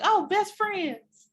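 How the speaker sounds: high, very slow sugary gush; high drawn-out mock delight. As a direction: draw out best friends like a fake sweet wife. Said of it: "was like".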